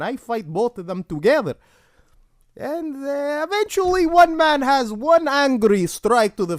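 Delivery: a deliberately shaky fake Russian accent; bad Russian accent. Comedian doing a bad Russian accent for a Halloween bit. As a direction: ham up a shitty Russian accent. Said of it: "disguise my voice with a arguably shitty Russian accent".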